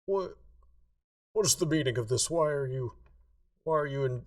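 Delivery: loud, high, flustered yell; yelling flustered NPC. Acted. Priest yelling at intruders in his temple, loud and high. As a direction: yell it out, caught off guard and indignant. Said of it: "He, like, yells out".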